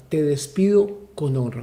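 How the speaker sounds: calm, even farewell at normal level; honourable farewell. Shown as a demonstration. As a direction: let him go with respect.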